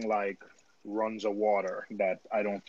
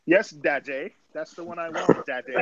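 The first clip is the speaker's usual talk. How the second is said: put-on higher-pitched posh British child; Peppa Pig; 5 semitones higher than usual. Teasing a friend as spoilt royalty, mock Peppa Pig voice. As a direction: play a cartoon British kid pleading to daddy. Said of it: "Sounds like Peppa Pig".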